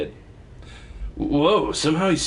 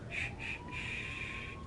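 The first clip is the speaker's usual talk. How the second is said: rhythmic shushing; 20 dB quieter, much slower than usual. Real, not acted. Soothing a teething baby.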